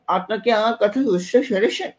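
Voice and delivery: slow, slurred words with the lips held open; mumbled words, lips held apart. Shown as a demonstration. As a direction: speak without closing your lips. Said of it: "এভাবে ধরে রাখেন".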